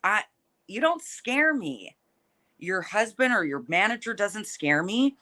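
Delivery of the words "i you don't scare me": feisty. Real, not acted. Brushing off the rival's threats.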